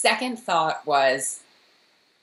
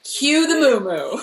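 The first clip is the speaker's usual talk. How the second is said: laughing through the words; giggling out the joke; 6 semitones higher than usual. Real, not acted. Friend joking about Claire's outfit, laughing.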